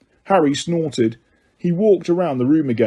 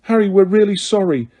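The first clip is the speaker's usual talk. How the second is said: desperate; 6 semitones higher than usual. A narrator's reading. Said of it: "said Hermione desperately".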